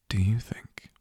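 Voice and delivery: breathy close whisper; whisper in your ear. Acted. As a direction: lean in and whisper it. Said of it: "I whisper in your ear".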